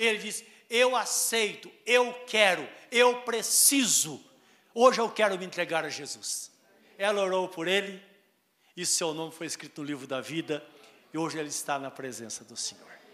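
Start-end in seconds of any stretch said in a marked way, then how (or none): 0.7-6.5 firm voice. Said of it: "ele disse com a voz firme".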